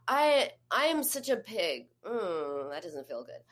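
hesitant admission that trails into discomfort; imitating her trouble saying it; reluctant, struggling. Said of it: "she couldn't even say it".

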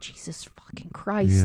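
slow, weary exasperation; exasperated. Retold or imitated. Narrator muttering about the spoon-dropping kid, slow and weary. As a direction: drag it out, fed up. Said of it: "I'm like".

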